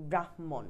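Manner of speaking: ব্রাহ্মণ as brah-mon, breath on the h; brah, then mon, for ব্রাহ্মণ; demonstrated pronunciation. Shown as a demonstration. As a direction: say ব্রাহ্মণ with an audible half h before mon. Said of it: "এরকম আমরা বলি".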